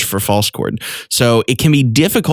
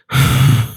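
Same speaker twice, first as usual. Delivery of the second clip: soft breathy rasp attempt; quiet false chord sigh. Shown as a demonstration. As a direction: try a false chord sigh at low volume. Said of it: "attempting false chord at a low volume".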